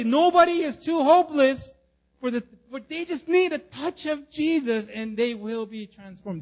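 rising sermon crescendo; preaching at full force. Real, not acted. Pastor urging his church that Jesus changes anyone, building shout.

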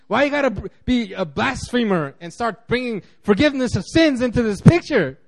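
imitating upset religious leaders accusing Jesus of blasphemy; indignant religious critics. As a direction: whine it like a scandalised Pharisee. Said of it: "It's like".

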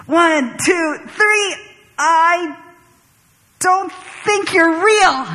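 high, strained, slowing on the last words; tense confession. Retold or imitated. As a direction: force out a frightening admission. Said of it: "finally got myself to say it".

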